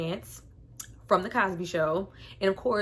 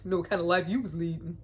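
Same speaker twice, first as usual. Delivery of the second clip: laughing quote; 3 semitones lower, faster than usual. Retold or imitated. Quoting movie line.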